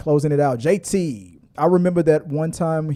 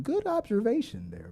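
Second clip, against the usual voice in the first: John Campea comment; 6 semitones higher, 8 dB quieter than usual. Retold or imitated. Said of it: "I'll give you a John Campea comment".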